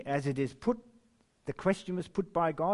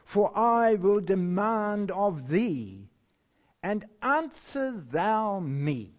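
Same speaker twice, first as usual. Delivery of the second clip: slow, solemn reading of scripture; measured pulpit reading with long pauses; slower than usual. Acted. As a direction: intone it like the voice of God, slowly.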